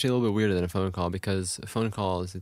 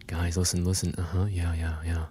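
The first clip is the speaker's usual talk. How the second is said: low bored fillers; 5 semitones lower than usual. Retold or imitated. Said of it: "you're just going".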